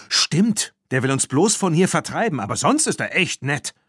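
a touch of a sarcastic hiss; understated, biting sarcasm. A narrator's reading. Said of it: "fauchte Claire".

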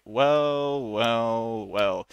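a cop catching a known crook; police officer. Shown as a demonstration. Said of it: "You can imagine a police officer".

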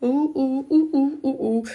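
string of high, short oohs; high celebratory oohs; playful oohs. Real, not acted. Playful hooting over her banger.

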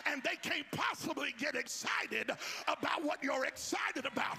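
high, loud shouted preaching; full-force preaching. Real, not acted. Preacher urging the congregation to believe what they heard, full-force shouted preaching. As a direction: belt out each phrase with driving fervour. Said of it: "I feel like preaching right here".

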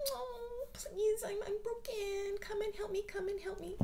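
high, whimpering plea for rescue; mock needy victim. Needy partner begging to be rescued, high whimper. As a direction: whine like someone fragile begging to be saved. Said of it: "you crave people like".

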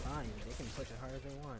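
shivering from the cold; teeth chattering. Real, not acted. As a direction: teeth chattering as you speak. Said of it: "so sorry if my teeth are chattering".

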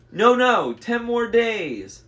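high, slow falsetto haggling; drawn-out fake bride plea. A narrator's reading. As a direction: bargain desperately in falsetto. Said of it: "in his falsetto voice".

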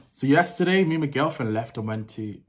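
lightly put-on American accent. Shown as a demonstration. Vlogger telling viewers about yesterday, lightly put-on American accent. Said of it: "let me do an American accent".

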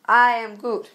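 slowly drawn I am Groot; slow Groot line. Retold or imitated. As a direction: say it slow like the tree creature. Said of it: "Now rephrase it".

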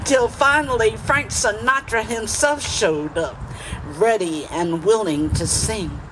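measured, rhythmic spoken-word delivery with pauses between phrases; poetry reading, lilting phrases with falling line endings; poem recitation. Acted. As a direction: recite it proudly to a live audience. Continues reciting own poem.

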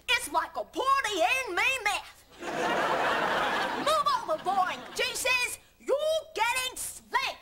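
bad German accent selling juice; over-eager ad read in a put-on German accent. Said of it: "me doing the German accent".

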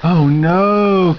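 Casey panicking; shriek. A narrator's reading. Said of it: "Casey shrieked".

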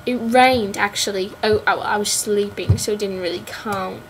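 mock British accent on the rain remark; amateur fake British accent; put-on British accent. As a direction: say it in your jokey British accent. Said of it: "Can't talk in a British heavy accent".

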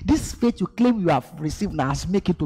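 high-pitched mocking taunt; mocking tempter. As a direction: tease like the devil sneering at faith.

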